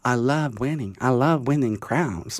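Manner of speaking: mock boy contestant. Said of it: "og han er også sånn".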